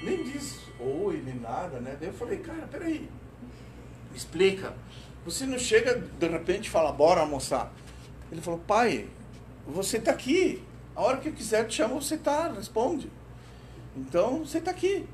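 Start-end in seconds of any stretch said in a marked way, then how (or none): 2.4-7.7 exasperated father. Retold or imitated. Pai questiona o filho. 8.7-15.1 higher, patient explaining; son explaining. Retold or imitated. Filho explica ao pai.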